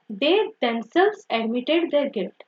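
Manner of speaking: "they themselves admitted their guilt" read slowly, each word set apart; slow example reading. Shown as a demonstration. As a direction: read the example sentence slowly, like dictating to a class. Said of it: "so here I have to tell this word themselves".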